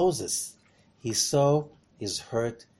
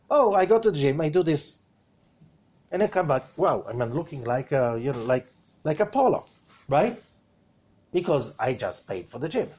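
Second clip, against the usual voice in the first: mock boast. Mocks lazy gym-goer.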